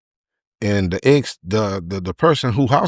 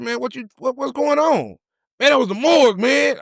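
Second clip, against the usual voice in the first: frantic exchange. Retold or imitated. Frantic exchange after the call.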